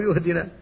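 يهدنا with ya in place of the hamza; mock the mistake, starting with a ya sound; imitated ya error. Teacher mimics a wrong reading: "يهدنا" with ya. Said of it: "ينطقها بالياء".

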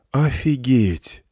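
slow, awed exclamation; spellbound. Acted. Senya staring at the seated crowd, slow awed wonder. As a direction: draw it out in amazement. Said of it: "заворожённо сказал Сеня".

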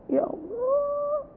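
strained, high wailing cry; anguished lament. Real, not acted. Preacher wailing at absent fathers, high and strained. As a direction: let it break in dismay.

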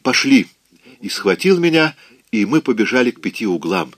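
high, hurried, breathless report; frightened report. Acted. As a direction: rush it out in fright.

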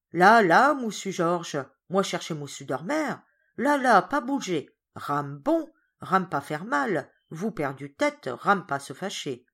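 loud then calming placating voice; calm him down like a madman; soothing servant. Acted.

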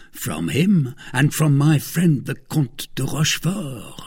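lightly voiced boastful man; a touch of smug pride; self-satisfied husband. Husband naming his noble friend, self-satisfied.

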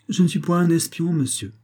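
high, indignant denial; proud protest. A narrator's reading. Young peasant rebutting talk of spies, proud protest. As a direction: draw yourself up and deny it proudly. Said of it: "en se redressant avec fierté".

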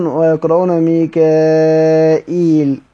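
ميكائيل drawn out slowly; reading demo. Shown as a demonstration. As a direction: recite ميكائيل at a slow careful pace. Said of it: "وحذف الهمزة".

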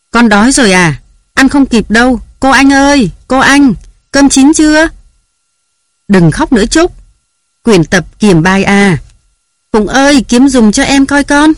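high, loud harried mother; yelling at the kids while they get ready for school; flustered mother's shouting; scolding shout. A narrator's reading. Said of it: "với tiếng la hét của nàng".

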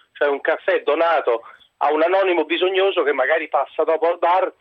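breathless from hurrying; talking while still winded; out of breath. Real, not acted. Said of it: "scusate il fiatone".

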